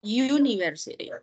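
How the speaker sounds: "University" said "yoo-niversity"; correct pronunciation. Shown as a demonstration. Teacher repeats the right form for the class. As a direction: stress the you sound at the start of "University". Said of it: "sounds like you".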